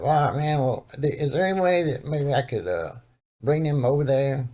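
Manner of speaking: disguised voice calling the cousin about the couch; old black man voice. Retold or imitated. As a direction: prank caller in a put-on old man voice. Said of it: "tried my best to do an old black man voice".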